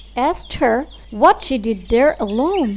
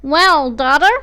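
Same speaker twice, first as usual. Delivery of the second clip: louder, rising "Well, daughter?"; mother greeting her returning favourite; eager call; 2 semitones higher, 6 dB louder than usual. Acted. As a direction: call out expectantly. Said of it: "she cried out".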